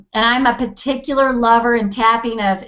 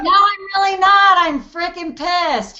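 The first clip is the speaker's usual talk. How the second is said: honest annoyance; 8 semitones higher than usual. Retold or imitated. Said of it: "I'm like".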